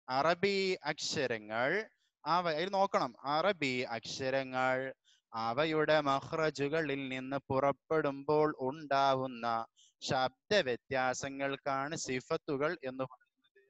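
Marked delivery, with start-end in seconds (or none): 0.1-1.7 slow, drawn-out reading for the class to repeat; teacher reading with the class; read-along. Shown as a demonstration. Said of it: "വായിക്ക്". 3.3-13.6 slow, drawn-out reading for the class to repeat; teacher reading with the class; read-along. Shown as a demonstration. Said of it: "വായിക്ക്".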